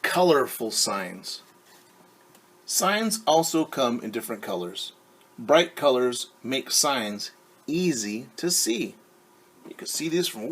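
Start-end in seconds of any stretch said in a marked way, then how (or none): 0.0-9.0 put-on reading to children. Reads the book aloud.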